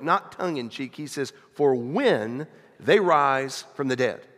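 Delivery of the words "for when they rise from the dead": slow, firm and deliberate, stress on "they"; with certainty. Retold or imitated. Jesus answering the Sadducees with slow, firm certainty. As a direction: lean on "they" in "For when they rise from the dead", no joking. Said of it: "he says with certainty, not as a joke".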